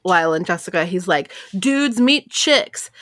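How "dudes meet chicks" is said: slow, higher-pitched cheerful dude; imitating a cheerful Californian introduction, drawn out; cheerful quote. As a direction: cheerfully stretch out each word, imitating a dude. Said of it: "it says that he said it cheerfully".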